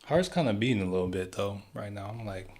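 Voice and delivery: out of breath after a workout; winded, breathing hard between words. Real, not acted. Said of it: "gotta catch my breath".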